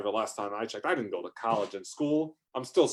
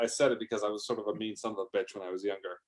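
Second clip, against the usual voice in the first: usual speaking voice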